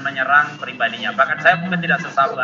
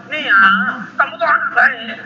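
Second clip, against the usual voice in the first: raised parent voice; 7 semitones higher, 4 dB louder than usual. Retold or imitated. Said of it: "Kalau saya bilang".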